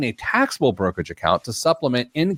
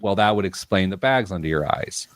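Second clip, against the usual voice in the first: smirking joke; 4 semitones lower than usual. Retold or imitated. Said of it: "I said as a joke with a, with a smirk on my face".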